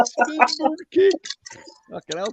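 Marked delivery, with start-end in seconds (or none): 0.1-1.1 high, slow announcer callout; video game move callout. Pretend. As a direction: call it out like a fighting game move. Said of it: "Ken doing Street Fighter moves".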